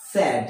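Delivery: স্যাড with one short open vowel; স্যাড said "sed", not "seyd"; correct pronunciation. Shown as a demonstration. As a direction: say স্যাড without a glide. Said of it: "কি হবে?".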